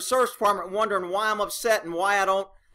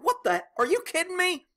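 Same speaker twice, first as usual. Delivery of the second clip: "Are you kidding me?" jumps way up high in mock disbelief; hammed-up outrage at the dead car; 10 semitones higher than usual. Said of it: "I'm like".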